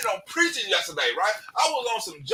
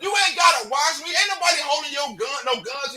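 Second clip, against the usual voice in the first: angry rant; 3 semitones higher than usual. Real, not acted. Ranting at haters.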